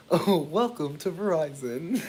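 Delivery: mock code-switched professional greeting; imitated corporate greeter. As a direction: put on a customer-service voice. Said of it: "they sound, like, way more like".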